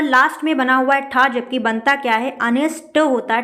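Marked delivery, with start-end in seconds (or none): 2.4-3.0 अनिष्ट ending in unaspirated retroflex ṭ; corrected pronunciation. Shown as a demonstration. Teacher corrects the spelling, ending on a clean ṭ. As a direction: end अनिष्ट on ṭ with no puff of air. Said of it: "टा बनता है".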